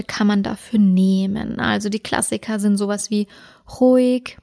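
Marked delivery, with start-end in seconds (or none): 3.8-4.4 calm cue word. Shown as a demonstration. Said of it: "mit einem sehr ruhigen Tonfall".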